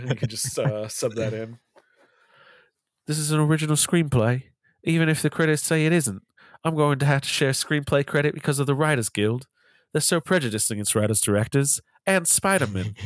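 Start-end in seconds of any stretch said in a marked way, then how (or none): 3.1-12.9 lightly voiced sad Dickensian British child; a hint of a forlorn little London urchin, pitched up; Tom Holland impression. Asked by cohost to redo the quote as Tom Holland, light urchin voice. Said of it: "my impression of Tom Holland is like a sad Dickensian British child".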